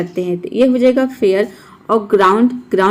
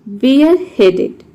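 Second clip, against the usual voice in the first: slow demo word; 2 semitones higher, slower than usual. Shown as a demonstration. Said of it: "word number सत्रह है".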